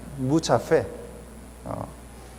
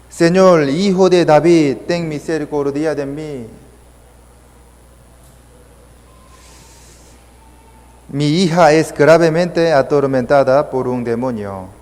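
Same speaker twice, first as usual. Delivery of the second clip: clamor imitado; 2 semitones higher, 3 dB louder than usual. Retold or imitated. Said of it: "diciéndole".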